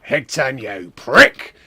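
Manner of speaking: lightly voiced wrestler, ending in a loud bark; Mister McMania. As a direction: start level, punch the last word loud. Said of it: "what's he sound like?".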